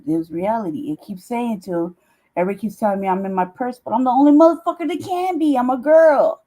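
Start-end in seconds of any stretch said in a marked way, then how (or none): 3.8-6.4 louder joking exclaim. Real, not acted. Joking self-mockery.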